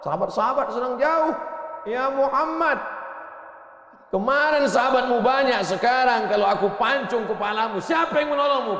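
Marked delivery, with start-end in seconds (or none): 1.9-8.8 menacing enemy. Acted. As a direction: bellow it at him with a drawn sword. Enemy threatens the Prophet.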